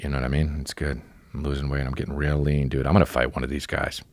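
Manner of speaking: ordinary delivery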